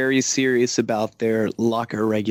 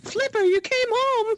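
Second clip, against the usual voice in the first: very high, overjoyed reunion cry; dramatic movie voice. Acted. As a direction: call out like a tearful movie hero. Joking dolphin movie voice.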